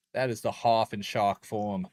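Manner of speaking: Australian vowels creeping in by accident; accidental Aussie accent. Real, not acted. Streamer declaring the shark is the Hoff, accidental Aussie accent. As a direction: slip briefly into an Australian accent. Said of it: "Why'd I say that like I'm a fucking Aussie?".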